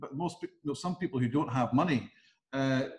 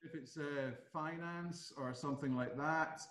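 much softer, barely coming through; dead quiet; 12 dB quieter, slower than usual. Real, not acted. Host suggesting finance topics to viewers, very quiet. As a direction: drop right down in volume. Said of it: "You've gone dead quiet".

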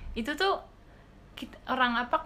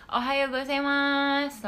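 higher, louder and slow "Ohayo gozaimasu"; teacher demo; 5 semitones higher, 6 dB louder, slower than usual. Shown as a demonstration. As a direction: say it slowly and clearly for learners. Teaching Japanese greetings.

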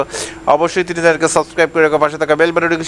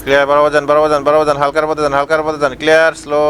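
a lightly voiced bus helper, a touch lower, chanting directions; bus helper calling; 3 semitones lower than usual. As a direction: guide the bus in like a helper on the footboard.

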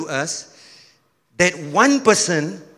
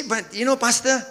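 mild doubting churchgoer; 3 semitones higher than usual. Acted.

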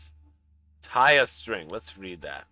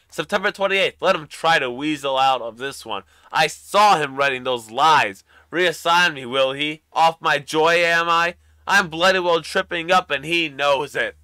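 louder, higher, spitting each accusation; furious rant; 5 semitones higher, 9 dB louder than usual. Acted. Paranoid man raging at his boss in his diary, loud and furious. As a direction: let the grudge boil over into shouting.

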